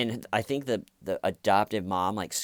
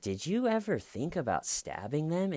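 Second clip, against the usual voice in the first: high, swooping pitch; retold probing question; 9 semitones higher than usual. Host asking girl about knives, high-pitched imitation.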